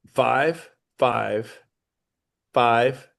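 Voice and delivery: slow, spaced-out digits; dictating. Shown as a demonstration. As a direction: read each number clearly, pausing. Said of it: "Write this down".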